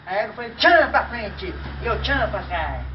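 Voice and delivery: loud, punchy "tchan"; punchline delivery. Acted. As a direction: slam the "tchan" like a sound effect. Comic story punchline.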